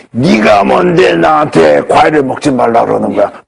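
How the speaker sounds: slow, menacing monster-like growl of a scolding patient; retold patient snapping in a monster voice. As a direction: turn into a beast mid-call, slow and threatening. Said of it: "괴물 목소리로".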